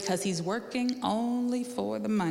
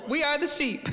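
laughing; 6 semitones higher than usual. Real, not acted. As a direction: chuckle while confirming it. Preacher laughs at simple answer.

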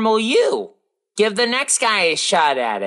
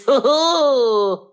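evil laugh; 3 semitones higher than usual. Pretend. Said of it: "let out an evil laugh".

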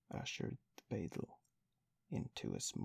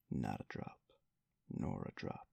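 lower, measured dignified refusal; pompous beadle waving off a drink, lower and placid; 10 semitones lower than usual. A narrator's reading. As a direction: refuse with calm dignity, voice dropped low. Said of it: "in a dignified but placid manner".

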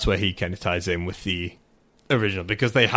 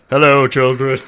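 loud put-on nanny greeting; male Mary Poppins; 8 dB louder than usual. Imagined nanny landing by umbrella greets children, theatrical. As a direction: call out theatrically as you float in. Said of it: "Can you imagine him just".

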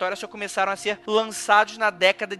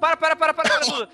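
playful stop call; 6 semitones higher, 3 dB louder, faster than usual. Pretend. Host jokingly halts the reveal.

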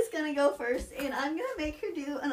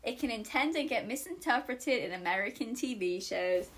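lower, monotone British accent attempt; 4 semitones lower than usual. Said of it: "That was so monotone".

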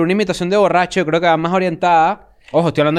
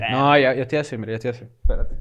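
mock drunk; 5 semitones lower, 4 dB quieter than usual. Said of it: "imítate a ti borracho".

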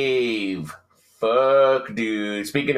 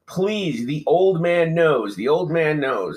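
drawn-out, slightly raised plea; mock pleading; 3 semitones higher, slower than usual. Host retelling townsman's plea to militia, mock pleading. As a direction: lightly act out begging. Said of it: "this guy is pleading with them".

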